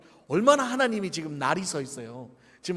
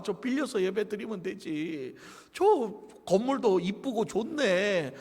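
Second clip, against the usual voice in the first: mock church member wheedling; casual coaxing. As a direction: talk them into it, stretching the sentence endings. Acts out member coaxing others.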